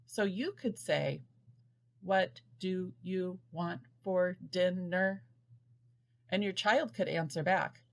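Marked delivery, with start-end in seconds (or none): 2.0-5.2 robot talk. Shown as a demonstration. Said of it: "talk like a robot".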